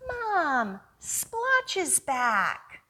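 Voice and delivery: put-on a kid rushing to tell Mom; worried boy. Boy character calls to mother.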